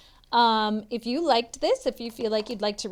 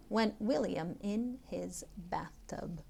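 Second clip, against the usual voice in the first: soft unvoiced whisper; hushed storyteller whisper; 2 semitones lower, 6 dB quieter than usual. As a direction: breathe it out secretly.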